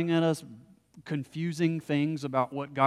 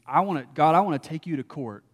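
Job protesting; 3 dB louder than usual. Retold or imitated. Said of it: "Essentially what Job is saying is".

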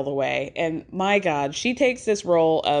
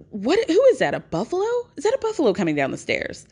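sudden high shout of alarm, then fast; startled alarm; 6 semitones higher, much faster than usual. Retold or imitated. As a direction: jump at a noise and yell out. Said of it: "and she goes".

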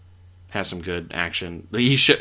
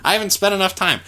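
confused exasperation; 11 semitones higher, 5 dB louder than usual. Retold or imitated. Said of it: "and I was like".

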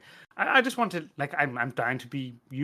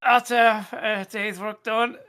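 mock innocent reply; 7 semitones higher, 6 dB louder, much slower than usual. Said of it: "the manager's like".

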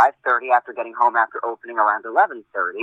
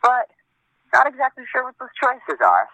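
usual speaking voice

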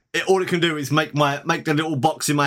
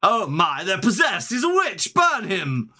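frightened villager; 6 semitones higher, slower than usual. Retold or imitated. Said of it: "they're just gonna be like".

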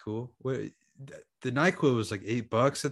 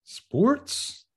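high disbelieving question; sports, really?; incredulous; 11 semitones higher than usual. Real, not acted. Friend doubts the sports excuse.

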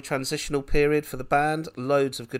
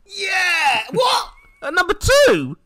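shocked shout, much higher and louder; outraged disbelief; 9 dB louder than usual. Real, not acted. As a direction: cry out in disbelief. Outraged at chart result.

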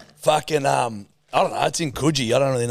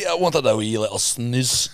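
amateur Scottish lilt; put-on Scottish accent. Podcaster wanting a wee snooze, amateur Scottish. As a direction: have a go at Scottish. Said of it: "this is not a bad Scottish accent".

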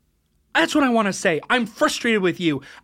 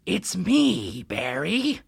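low, soft luring voice; sewer monster; 7 semitones lower, 5 dB quieter, much slower than usual. Acted. Sewer monster luring Barry, low and soft. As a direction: lure the child in, low and quiet.

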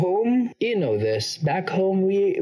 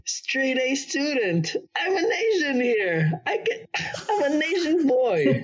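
much higher, laughing as he brags about straight A's; 9 semitones higher than usual. Real, not acted. Student laughing to the interviewer about his easy grades, laughing high-pitched brag. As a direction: squeal it out through a laugh.

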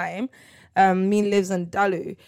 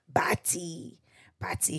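calling softly; 5 dB quieter, slower than usual. Real, not acted. Calling sister quietly.

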